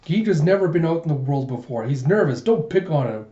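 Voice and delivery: lightly acted dressing-down; mild scolding. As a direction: scold him a little, voice slightly lifted. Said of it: "dressing down Huck going".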